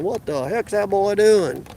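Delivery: slow, drawling redneck voice; mock redneck onlooker, taking it slowly; redneck accent. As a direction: imitate a puzzled redneck neighbor, drawn out. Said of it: "gave everybody in my area a redneck accent".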